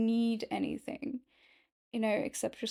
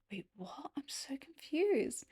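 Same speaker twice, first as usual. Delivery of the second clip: whispered confusion; 4 semitones higher, 7 dB quieter than usual. Retold or imitated. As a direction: whisper it, baffled. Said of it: "And then I'm like".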